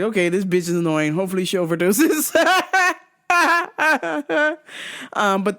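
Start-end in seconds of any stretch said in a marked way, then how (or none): 0.0-2.3 fast, dry, fed-up aside; deadpan annoyed. Retold or imitated. The comic reacting to the sister, dry. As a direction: roll your eyes at the screen. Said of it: "And I was like".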